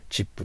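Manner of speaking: "チップ" with a ch start and final "pu"; Japanese chip. Shown as a demonstration. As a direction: say "チップ" as a katakana loanword. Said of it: "日本語ではチップと言いますけ". (日本語式に「チップ」)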